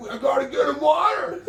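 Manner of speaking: high, loud, panicked yell about water; frantic shout. Retold or imitated. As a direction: blurt it out in a frantic rush. Acted quote of frantic friend.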